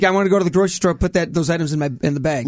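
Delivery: "bag" said like "beg", Minnesota vowel; Minnesota accent. Shown as a demonstration. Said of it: "now you do say it weird".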